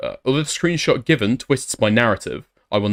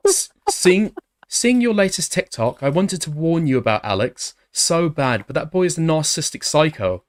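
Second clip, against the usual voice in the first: put-on girl voice; 4 semitones higher than usual. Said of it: "Can you just do a normal voice?".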